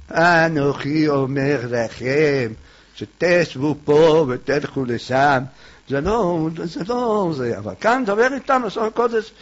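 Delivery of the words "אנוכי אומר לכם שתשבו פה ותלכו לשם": pompous impostor. Retold or imitated. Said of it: "אם הוא מתחזה".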